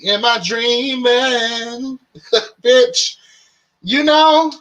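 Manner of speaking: slow, high and laughing; laughing disbelief. Real, not acted. Laughs at the too-good sale.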